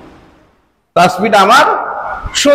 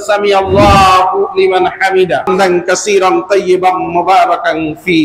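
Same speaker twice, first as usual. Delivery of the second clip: prophet's prayer recitation; 3 semitones lower than usual. Retold or imitated. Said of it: "বললেন".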